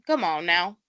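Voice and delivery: lightly imitated firm reproach; a hint of mimicking her reaction; Latia. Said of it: "That was exactly how she said it".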